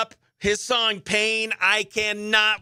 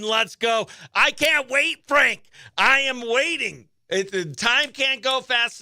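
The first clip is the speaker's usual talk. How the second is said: eager hype; 5 semitones higher than usual. Real, not acted. Hyping up the upcoming song.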